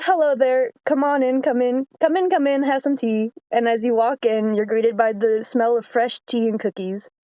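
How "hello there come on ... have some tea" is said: put-on old British lady. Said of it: "she starts turning British".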